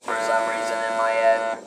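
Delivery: buzzy mechanical device voice; robotic voice. Real, not acted. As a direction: talk through a robotic voice box. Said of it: "see how this one sounds more robotic".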